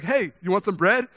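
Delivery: loud, bright call across the street, pitched high; shouting "you want some bread" as a friendly offer; eager offer. Retold or imitated. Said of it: "I'm like".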